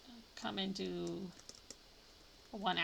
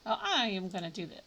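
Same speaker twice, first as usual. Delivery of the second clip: louder burst of resolve; sudden loud; 5 dB louder than usual. Real, not acted. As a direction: blurt it out loud. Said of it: "I said that so loudly".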